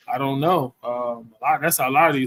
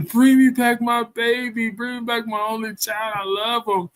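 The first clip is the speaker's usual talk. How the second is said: mock screaming; 6 semitones higher than usual. Mother chasing the father for her baby, as a mild mock scream. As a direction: imitate a frantic mother, lightly.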